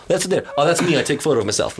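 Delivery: rough attempt at a Russian accent; lightly done mock Russian accent; put-on Russian accent. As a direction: imitate a waiter with a loose Russian accent. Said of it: "I'm still giving a Russian accent here".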